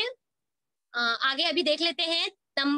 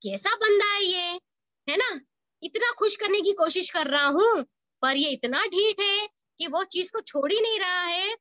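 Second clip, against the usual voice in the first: joker's frustration; 2 semitones higher than usual. Acted. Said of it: "तो यहाँ पर joker क्या हो जाता है".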